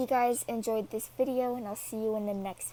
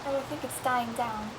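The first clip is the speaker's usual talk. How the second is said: talking around a lollipop; words round a candy in the mouth; sucking a lollipop. Real, not acted. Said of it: "sorry, I have a lollipop in my mouth".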